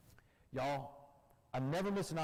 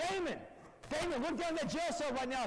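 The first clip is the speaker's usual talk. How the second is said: coach-like yelling; 12 semitones higher than usual. Retold or imitated. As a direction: bark orders like a football coach. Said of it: "She started screaming like a football coach".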